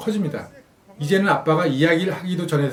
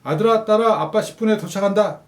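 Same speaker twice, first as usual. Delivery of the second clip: cheerful phone call; 5 semitones higher, 3 dB louder than usual. Acted. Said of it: "전화를 합니다".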